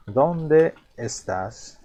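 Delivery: dónde stretched very slow, stress on dó. Shown as a demonstration. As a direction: draw out dónde, hitting the first syllable. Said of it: "donde en castellano tiene este acento".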